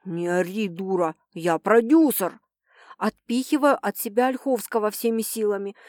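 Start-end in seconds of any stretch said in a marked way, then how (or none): 0.0-2.4 gruff producer. Acted. Producer snaps back at her.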